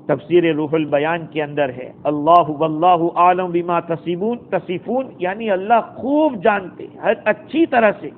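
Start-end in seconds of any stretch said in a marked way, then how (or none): 2.0-5.1 Quranic recitation. Acted. Quran verse recited in sermon.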